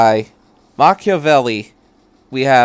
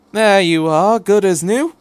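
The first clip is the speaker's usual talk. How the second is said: rambling, higher eccentric stranger; chatty Doctor; 8 semitones higher, 5 dB louder than usual. Acted. The Doctor rambling to Shinji about the tape, chatty. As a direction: babble happily about gadgets.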